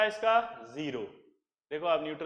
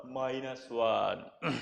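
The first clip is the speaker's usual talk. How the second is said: slow low answer; 9 semitones lower, 6 dB quieter, much slower than usual. Shown as a demonstration. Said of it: "कितना charge है रे?".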